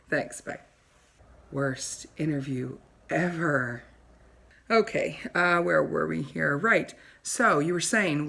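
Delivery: a self-adoring TV host preening for her audience; snooty talk show host. Acted. Wendy takes a phone call.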